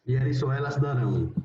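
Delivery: "darão" ending on a nasal ão diphthong; teacher models nasal "darão"; nasal final ão. Shown as a demonstration. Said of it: "con acento nasal en la segunda A".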